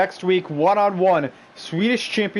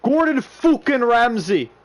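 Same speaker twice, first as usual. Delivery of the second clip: higher, slower, drawn-out ring-announcer call; hyped announcer yell; 6 semitones higher, slower than usual. Acted. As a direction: sell the entrance like a big-time announcer. Announcing Ramsay's entrance.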